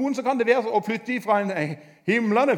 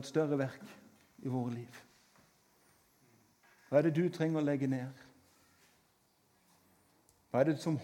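altar call; 6 semitones lower, 6 dB quieter than usual. Acted. Preacher to congregation during worship, soft altar call. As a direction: invite them gently to let go.

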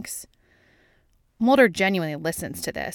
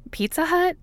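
"Pizza Hut" pitched far higher, disbelieving; incredulous question; 11 semitones higher than usual. A narrator's reading. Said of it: "Scully asks".

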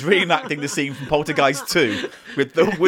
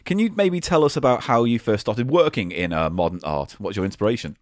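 hushed arts interviewer; 8 semitones lower than usual. Pretend. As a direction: ask it low like a reverent arts host. Plays art podcast interviewer.

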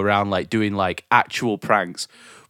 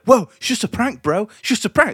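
much higher, whiny prankster excuse; mock prankster; 11 semitones higher than usual. Mocking a prankster excusing himself, high and whiny. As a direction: mimic a smug prankster backing off. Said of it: "he'll just be like".

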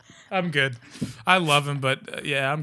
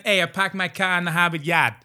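put-on Boston accent; 2 semitones higher than usual. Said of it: "or like Boston".

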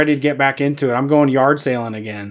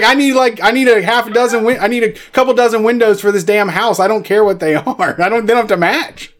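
mock cheapskate builder; 6 semitones higher than usual. S1 voices the penny-pinching builder.

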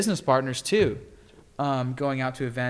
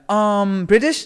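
lightly mocked guesser, higher and louder; imitated unsure guess; 7 semitones higher, 9 dB louder, much slower than usual. Stranger guessing the speaker's accent, mock-hesitant. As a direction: mimic a hesitant guess with a questioning lift.

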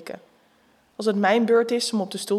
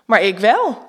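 much louder announcement; the stripper announcing himself, called out loud; calling out; 11 dB louder, slower than usual. Acted. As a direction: make a grand entrance. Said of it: "roept hij".

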